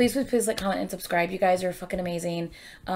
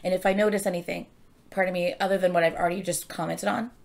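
talking through hiccups. Real, not acted. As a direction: break the words with hiccups. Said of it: "I'm hiccuping now".

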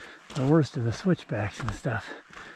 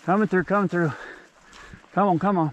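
coming through shout; 5 semitones higher, faster than usual. Real, not acted. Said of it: "Time to make a little noise".

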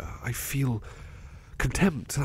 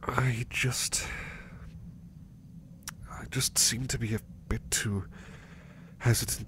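whispered, hesitant admission; 4 dB quieter than usual. Acted. Butler confiding his fear of going home, whispering. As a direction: drop to a whisper as you admit it.

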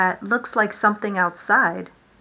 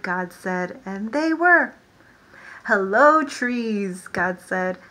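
lively storytime reading, God's hellos called out; animated picture-book read-aloud; reading to children. Acted. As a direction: read it to a class of little ones. Reads creation story to children.

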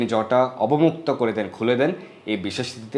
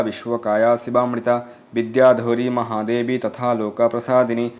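mantra recitation. Acted. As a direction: intone the mantra steadily, like a priest at the river.

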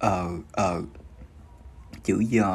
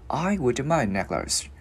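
slow, careful demonstration for learners; unhurried teacher's model sentence; slow model reading; 3 semitones higher, slower than usual. Shown as a demonstration. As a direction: read it out slowly, phrase by phrase. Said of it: "mình cứ đi từ từ vào thôi".

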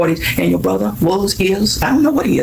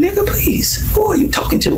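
pitched way up in scorn; scornful high retort; 12 semitones higher than usual. Real, not acted. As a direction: scoff at him, high and disbelieving.

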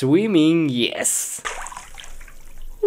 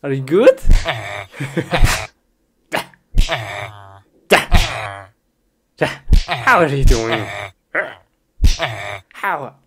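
loud mock greeting; 2 semitones lower, 5 dB louder than usual. Greeting someone in game.

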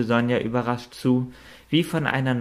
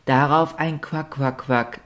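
a higher, firm duck-like quack of agreement; determined quacking; 4 semitones higher than usual. A narrator's reading. Richard the duck vows to stay away from the moor, firmly quacking. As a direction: quack it out resolutely like a duck sealing a promise. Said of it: "schnatterte Richard mit Bestimmtheit".

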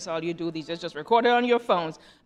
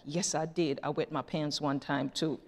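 lower, softer confiding voice; mock whisper back; 5 semitones lower, 7 dB quieter than usual. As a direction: confide it quietly, only hinting at a whisper. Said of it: "Susie whispers back".

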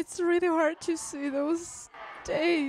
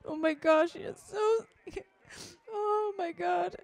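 choked up, voice catching with sobs; tearful and overwhelmed, sighing between phrases; tearful reaction; 4 semitones higher than usual. Real, not acted. Viewer watching starving people on screen, tearful.

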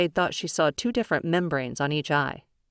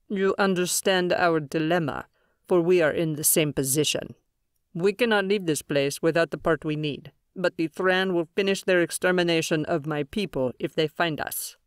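measured, otherworldly alien elder; calm alien leader voice. Acted. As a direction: speak as a grave alien leader.

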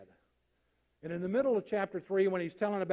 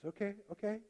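soft, settled reply; calmed down; 2 semitones higher, 6 dB quieter, faster than usual. Acted. Second official after hearing rule six, calmed down. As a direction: let the agitation go, speak softly. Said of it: "this man just calms down".

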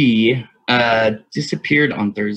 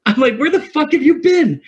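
loud, much higher angry yell; mad; 5 dB louder than usual. Retold or imitated. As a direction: demand an answer, outraged. Retelling angry confrontation with friend.

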